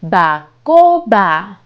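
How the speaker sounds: bacoba said slowly, each syllable clear: ba-co-ba; slow model word. Shown as a demonstration. Teacher modeling bacoba slowly for a child to repeat. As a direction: spell out bacoba slowly so a child can copy it. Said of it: "bacoba in Papiamento".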